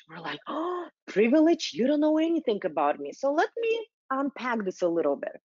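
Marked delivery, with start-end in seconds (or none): 0.5-3.1 high, indignant start on the first words; mock triggered. Voicing white people hearing the word privilege, mock triggered. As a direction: act out someone taking offence at a word. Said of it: "we get so triggered".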